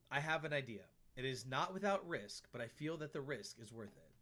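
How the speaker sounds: measured diary reading; reading a journal. Acted. Reads a diary entry aloud.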